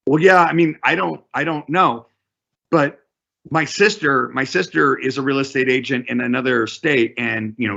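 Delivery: a lightly voiced unsure seller; seller's voice. Seller defending the figure to the agent, lightly voiced.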